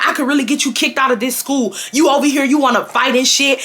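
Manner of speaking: worked-up imitation of a threatening scolding; lightly heated, telling off a student; mad assistant principal. Assistant principal threatening to kick student out, getting mad. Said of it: "he started getting mad at me".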